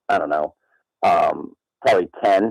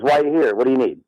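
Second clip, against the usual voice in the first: higher quoted doctor voice; lightly voiced doctor, asking pitched up; imitating the doctor; 5 semitones higher, faster than usual. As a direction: question it high, as the doctor. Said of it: "He goes".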